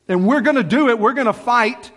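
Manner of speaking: a bold battle cry of resolve; rousing resolve. Acted. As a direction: fire up the troops.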